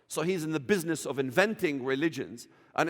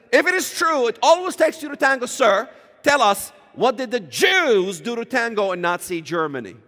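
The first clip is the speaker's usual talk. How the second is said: forceful challenge; 3 semitones higher, 5 dB louder than usual. Retold or imitated. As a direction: press him hard with the question. Retold challenge to interviewer.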